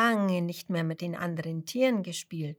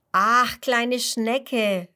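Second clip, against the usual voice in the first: coaxing sigh; 3 semitones higher, 7 dB louder, much slower than usual. Acted. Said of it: "ruft Mister Schubert".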